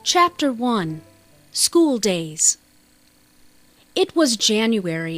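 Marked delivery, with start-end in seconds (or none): none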